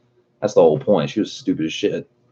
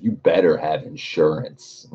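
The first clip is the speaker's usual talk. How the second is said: menacing; slower than usual. Retold or imitated. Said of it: "literally how I was".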